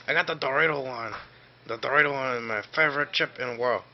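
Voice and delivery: lightly voiced chip seller; Jose voice. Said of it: "It's me, Jose".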